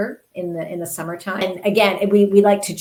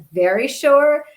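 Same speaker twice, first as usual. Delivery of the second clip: firm retort; 8 semitones higher, 7 dB louder, slower than usual. Retold or imitated. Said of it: "she's like".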